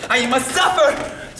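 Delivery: mock suffering. Melodramatic self-pity.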